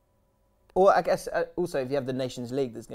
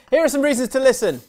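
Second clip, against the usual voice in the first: laughing while talking; 10 semitones higher, 13 dB louder than usual. Real, not acted. Laughing after the joke.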